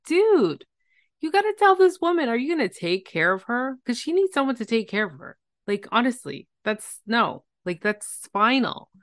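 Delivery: high, fast, urgent pleading; exasperated outburst. Retold or imitated. To the husband, a high fast exasperated "dude" outburst. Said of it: "which I was like".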